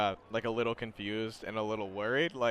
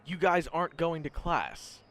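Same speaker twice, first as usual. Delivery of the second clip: incredulous; 7 semitones higher than usual. Acted. Student stunned by suspension news.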